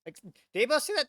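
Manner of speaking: lightly acted disbelief, pitch jumping up; mock bewildered bystander, speeding up at the end; stunned Russian soldiers. Reactor voicing Russians who saw the skier, mock disbelief. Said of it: "the Russians are like".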